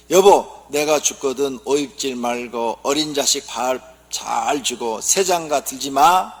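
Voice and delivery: dying wife's last words. Acted. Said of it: "죽어가면서 하는 말이".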